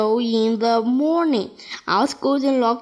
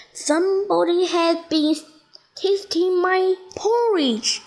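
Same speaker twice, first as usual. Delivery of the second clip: lightly voiced mother bear; a hint of the mother bear; middle-sized bear voice; 6 semitones higher than usual. A narrator's reading. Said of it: "in her middle-sized voice".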